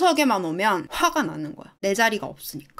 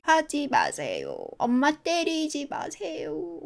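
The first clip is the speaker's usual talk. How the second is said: put-on slow, soft little-child plea, lifting in pitch; pleading child imitation; 5 semitones higher, 5 dB quieter, much slower than usual. Child begging dad not to hit mom, acted timid plea. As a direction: draw it out like a scared child begging. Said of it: "이렇게 말하겠지".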